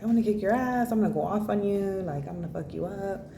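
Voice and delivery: high, brash tiny snake making threats; tough little snake voice. Acted. Retelling a snake meme to viewers, brash high snake voice. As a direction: puff up like a tiny snake picking a fight.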